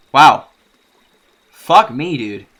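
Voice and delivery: loud, stunned wow; real amazement. Real, not acted. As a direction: blurt out real shock at the writing. Streamer reacts to the scene.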